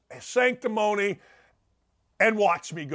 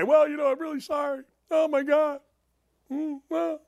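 mock apology; 7 semitones higher than usual. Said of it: "You don't get up there and say".

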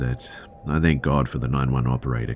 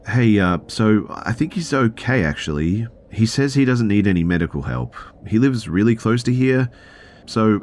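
high, louder, put-on breezy phone voice; pretend casual call; 7 semitones higher, 4 dB louder than usual. Driver pretending to cancel ambulance, fake-casual. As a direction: act like all is fine, stalling lightly. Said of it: "that's exactly what I do".

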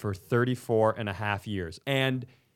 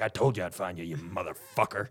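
low mock threat, lightly voiced; dad confronting Dave at last, low menace; imitating a threatening dad; 7 semitones lower, 4 dB quieter than usual. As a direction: growl it low like a grudge finally settled. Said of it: "or it's like".

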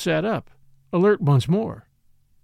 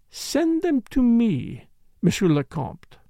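slow, soft and knowing; 6 semitones higher, slower than usual. A narrator's reading. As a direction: draw it out softly. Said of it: "she said softly".

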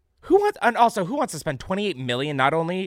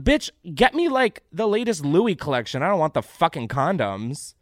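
1 mock demand; 3 semitones higher, 4 dB louder than usual. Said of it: "I'd be like".

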